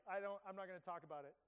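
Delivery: fast, laughing brush-off; laughing refusal. Retold or imitated. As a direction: laugh it off and wave the question away.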